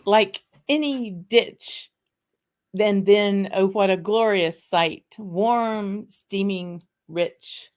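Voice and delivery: slow, grand reading of the Burns address; theatrical poem recital. Acted. Host reciting the haggis address to viewers, slow theatrical declaiming. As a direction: declaim it slowly with mock gravity.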